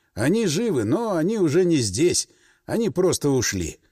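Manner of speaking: plain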